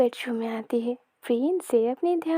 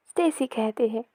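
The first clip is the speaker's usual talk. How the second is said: ordinary delivery, nothing marked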